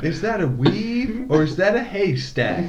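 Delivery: high, laughing tease; laughing mockery. Real, not acted. Mocking the Bitmoji.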